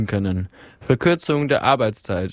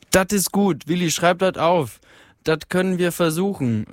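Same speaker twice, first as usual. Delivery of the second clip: higher, eager Ruhrpott voice from the hall; calling out from the crowd; 6 semitones higher than usual. A narrator's reading. Miner in the crowd calling out approval to Willi, higher and eager. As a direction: shout approval from the back in dialect. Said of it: "rief eine Stimme".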